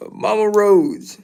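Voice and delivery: slow mocking singsong name; teasing, drawn out. Real, not acted. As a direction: stretch it out teasingly. Teasing about Cody's mother.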